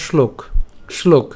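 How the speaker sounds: "শ্লোক" begun with sh, as "shlok"; palatal sh. Shown as a demonstration. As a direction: say "শ্লোক" with sh before the l. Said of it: "আর যদি তালব্য স ওকার থাকতো".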